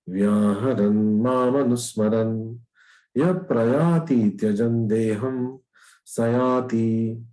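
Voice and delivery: slow, drawn-out Sanskrit recitation; verse recitation. Acted. Teacher reads out shloka thirteen to listeners, slow measured recitation. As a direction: recite the shloka slowly, holding the long syllables.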